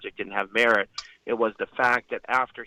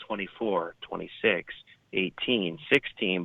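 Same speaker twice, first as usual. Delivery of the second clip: lightly imitated number-station voice, a little lower; monotone number reader; 3 semitones lower than usual. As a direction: recite numbers in a mildly monotone voice. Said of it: "it was the monotone voice".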